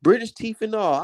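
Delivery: lightly mocked British fan voice; a hint of a cheeky Brit sneering; half-hearted British troll impression; mocking British accent. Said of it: "this is what I see".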